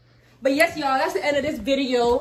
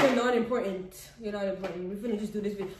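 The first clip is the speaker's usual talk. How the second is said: mocking imitation; 4 semitones lower, 4 dB quieter than usual. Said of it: "Don't you be like".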